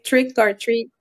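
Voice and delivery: slow English phrase in a Québécois accent; natural Québécois-accented English. Real, not acted. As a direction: say the English slowly, as a French-speaking Quebecker would. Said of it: "ça passe mieux avec l'accent anglais québécois".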